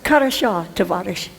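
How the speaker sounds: lightly Russian-sounding greeting; terrible Russian. Retold or imitated. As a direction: attempt the Russian words like a beginner. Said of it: "my terrible Russian".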